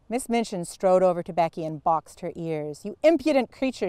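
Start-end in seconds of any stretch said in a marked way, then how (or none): 2.8-3.9 high, fast scolding snap. A narrator's reading. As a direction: lash out at the servant girl. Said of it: "she said".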